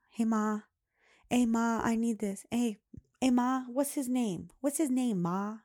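imitating pestering daughter. Daughter keeps asking mom for the name, lightly mimicked pestering. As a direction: nag like a kid tugging for attention.

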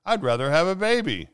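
loud high squeal of dismay. Acted. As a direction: squeal it out in horror. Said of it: "Missus Flegel squealed".

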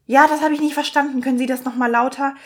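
testy request, voiced as someone fed up; equally pissed receptionist. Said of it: "Und die Arzthelferin genauso".

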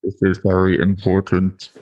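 strong Bristolian accent. Real, not acted. Co-host stressing the important step, in strong Bristolian. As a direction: let the Bristolian come out strong. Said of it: "My Bristolian accent came out strong then".

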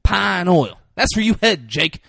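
imitated taunt, high and building to a loud finish; mock menace, swelling on the last words; hammed-up movie villain taunt; Denzel Washington. Acting out Denzel's taunting threat.

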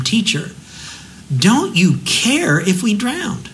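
high, slow desperate cry of the disciples; panicked plea. Retold or imitated. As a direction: plead like men afraid of drowning. Disciples pleading in the storm.

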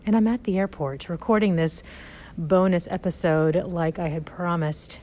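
talking through a face mask; muffled through mask. Real, not acted. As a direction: speak muffled behind a mask. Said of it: "I'm talking through a mask".

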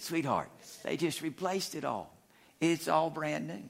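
soft, patient husbandly answer; calm her down gently; gentle patient reply. Retold or imitated. Husband patiently answers wife about the distributor cap, softly. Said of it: "And I said".

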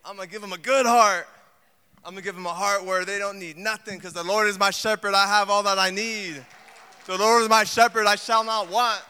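God speaking, building to a proud shout; light God voice rising to a loud proclamation; voicing God. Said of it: "He's like".

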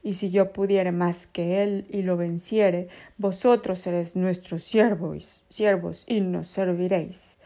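taunting giant. Acted. Goliath's challenge read as quote.

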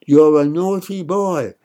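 loud, slow scolding; angry shout. A narrator's reading. Bad mother scolding the boy, shouting angrily. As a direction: scold him with rising anger. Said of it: "shouted the bad mother".

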